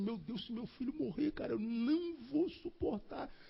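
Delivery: high, soft, anguished and despairing pleading tone.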